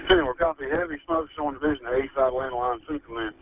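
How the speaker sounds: urgent firefighter radio. Real, not acted. Dispatch confirms over radio.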